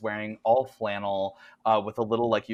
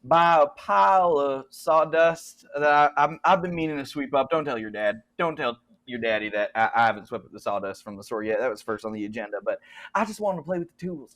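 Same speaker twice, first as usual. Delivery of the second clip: put-on Southern accent; 3 semitones higher, 5 dB louder than usual. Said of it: "he's like".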